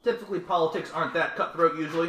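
NPC council member voice. Acted. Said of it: "he says".

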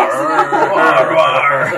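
loud laughing pirate arr. Acted. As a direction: growl it like a pirate. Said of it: "Personality transplant".

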